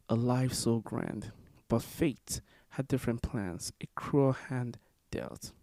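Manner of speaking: measured memorial poem reading, phrase by phrase; poem recitation. Acted. Poet reading in honor of Amadou Diallo, measured recitation. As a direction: recite it line by line, with deliberate pauses.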